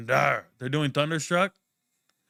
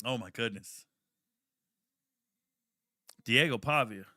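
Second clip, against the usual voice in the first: ordinary delivery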